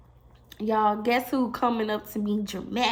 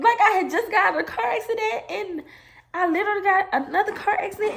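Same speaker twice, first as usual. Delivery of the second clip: laughing shout; 8 semitones higher, faster than usual. Real, not acted. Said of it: "Why are you crying?".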